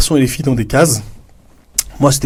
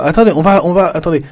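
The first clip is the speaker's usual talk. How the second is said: teacher to the class; 5 semitones higher, faster than usual. Retold or imitated. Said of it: "Je vais dire".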